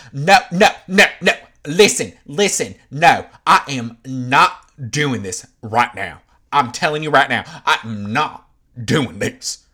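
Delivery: mock an angry refusal to go there; emphatic shout. The speaker shuts down heated talk.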